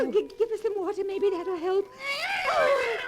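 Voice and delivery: frantic, rising cries for help; high shouting panic over the cat; desperate, breathless alarm; panicked. Acted. Pet cat collapsing.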